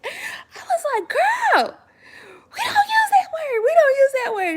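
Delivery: high, loud, half-laughing cry of disbelief; shocked high scolding. Retold or imitated. Shocked mom scolding daughter.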